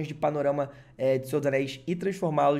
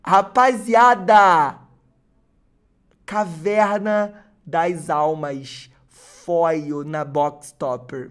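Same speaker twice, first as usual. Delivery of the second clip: slow, loud, drawn-out announcement; excited; 8 dB louder, much slower than usual. Real, not acted. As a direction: announce it, overwhelmed. Announces card, overwhelmed.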